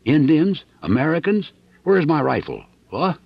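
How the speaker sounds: high, loud confused alarm; panicked waking. Acted. Dixon startled awake by Mason's bell, alarmed. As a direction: grab for words in a panic. Just woken, panicked questions.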